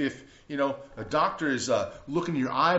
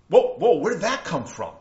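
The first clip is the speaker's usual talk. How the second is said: a louder, startled whoa; retold shock; 5 semitones higher, 11 dB louder than usual. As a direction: caught off guard by the news. Shocked reaction to bad news.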